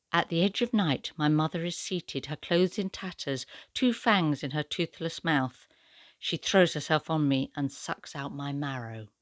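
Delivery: measured, deliberate poetry recital; poem reading. Acted. Reviewer reading a translated poem to viewers, in a measured recital. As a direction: read the poem with weight.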